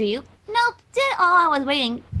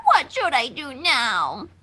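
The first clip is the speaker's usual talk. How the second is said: mock despair; 5 semitones lower, much slower than usual. Rarity despairing, slowed.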